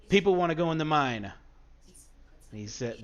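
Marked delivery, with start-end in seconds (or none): 0.1-1.2 loud higher yell across distance; yelled back. Acted. Guard yells back to the bandit leader, loud shout. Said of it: "he yells back".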